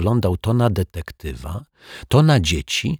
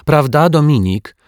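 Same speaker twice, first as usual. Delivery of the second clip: high-pitched, louder coaxing question; girl's raised, insistent appeal; prompting girl; 9 semitones higher, 5 dB louder than usual. A narrator's reading. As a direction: prompt a friend to agree. Zuzia prompts Dominik to agree.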